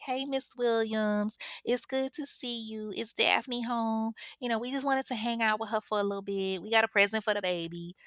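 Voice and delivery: butter up the mother; sweet fake politeness. Tasha greeting Daphne's mother, sweetly fake polite. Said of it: "she was like".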